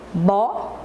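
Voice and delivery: "Bola" split into bo... la, long pause between; slow syllable-counting demo of "Bola". Shown as a demonstration. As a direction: say "Bola" one syllable at a time, first one rising. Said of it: "Vamos falar bem devagar".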